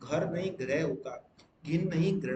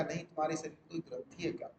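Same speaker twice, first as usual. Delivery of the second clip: quick mock correction; 6 dB quieter, faster than usual. Shown as a demonstration.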